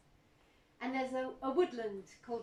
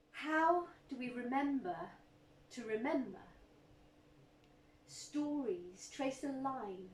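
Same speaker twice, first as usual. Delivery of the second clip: measured, rhythmic poetry reading; poem recital. Acted. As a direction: recite it slowly to a hushed room.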